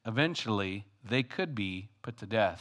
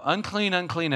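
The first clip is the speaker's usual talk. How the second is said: high, loud leper's call; hammed-up outcast cry; crying out warning; 7 semitones higher, 3 dB louder than usual. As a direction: wail the warning like you've done it for years. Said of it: "they're used to crying out".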